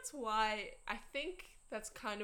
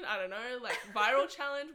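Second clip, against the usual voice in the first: stifled giggles; 3 semitones higher, 9 dB louder than usual. Real, not acted. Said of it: "I can't keep a straight face".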